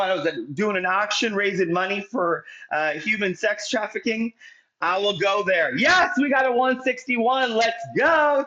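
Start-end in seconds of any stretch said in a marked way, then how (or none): 5.8-8.4 high, triumphant hype welcome; excited cheer. Real, not acted. Host hits share goal and welcomes guest, excited cheer. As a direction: celebrate big, pitched right up.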